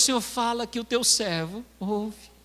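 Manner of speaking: earnest prayer rising gradually in pitch; fervent preacher's prayer in balanced phrases; model prayer. Shown as a demonstration. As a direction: pledge obedience to God, building phrase by phrase. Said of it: "o que que você vai falar pra Deus".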